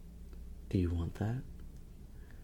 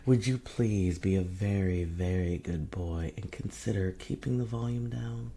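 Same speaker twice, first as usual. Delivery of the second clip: mock pleading. On her knees asking a partner to turn it down, mock pleading. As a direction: plead in a teasing, put-on way. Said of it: "on my knees pleading".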